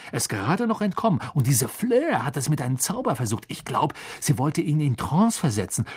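put-on lively, quick boyish chatter; excited Ron. Ron tells Harry about the rivals, breathless and lively. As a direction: rattle it off like a waterfall. Ron recounts the other champions.

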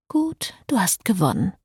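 hushed whisper of surrender; whispered concession. A narrator's reading. Cecile concedes to Frédéric during the wedding, whispered. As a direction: whisper it, giving in.

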